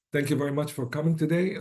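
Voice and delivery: worn-out, slightly lost voice; hoarse voice. Real, not acted. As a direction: talk through a tired, hoarse throat. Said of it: "Sorry I lost my voice a little bit here".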